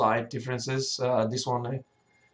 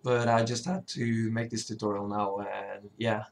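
hoarse sick voice; rough, cracking voice from illness. Real, not acted. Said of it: "sorry about my voice, I'm really sick now".

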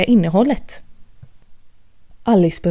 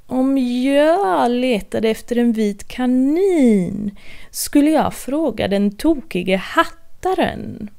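slow, drawn-out grinning cat; lightly voiced cat, taking its time; sly Cheshire cat; 3 semitones higher, slower than usual. Cheshire cat advising Alice, in a slow teasing voice.

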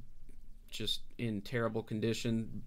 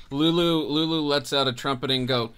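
trumpeting call; 3 semitones higher, 7 dB louder than usual. Acted. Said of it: "That's the best I got for trumpet".

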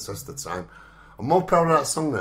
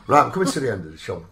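louder, fast, with a laugh; laughing through emotion; 7 dB louder, faster than usual. Real, not acted. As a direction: laugh off being choked up. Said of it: "I'm getting all emotional".

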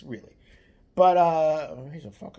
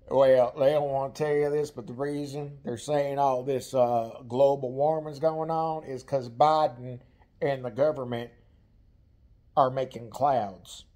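lightly voiced Southern trucker brother, louder and slow; a hint of a conspiracy-minded brother, drawn out; imitating her brother; 3 dB louder than usual. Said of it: "random thoughts about things, you know, like that".

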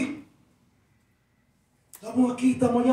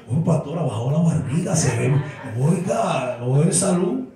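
mock churchgoer voice, lower; mocking church folk; 6 semitones lower than usual. Pastor mimics congregants teasing about his weight, lower mock voice. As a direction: tease like a nosy church member. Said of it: "nadie me".

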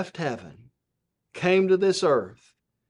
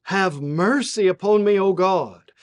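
raised, louder scripture plea; preached prayer, pitched up and forceful; David; 4 semitones higher, 5 dB louder than usual. Acted. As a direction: recite a psalm pleading for mercy. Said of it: "David says".

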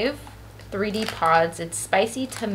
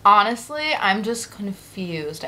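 chewing while talking; muffled through food; mouth full of chips; slower than usual. Real, not acted. Seen 0: Ate a chip at -3s; mouth still working while talking.

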